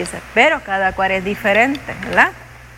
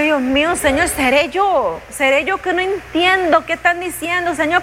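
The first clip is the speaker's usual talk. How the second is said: pleading frustrated prayer; 6 semitones higher than usual. Retold or imitated. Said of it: "Y yo".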